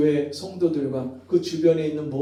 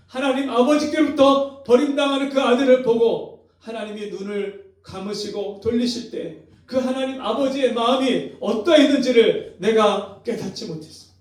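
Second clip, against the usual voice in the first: repentant cry; 7 semitones higher, 5 dB louder than usual. Retold or imitated. Repentant elder crying to God.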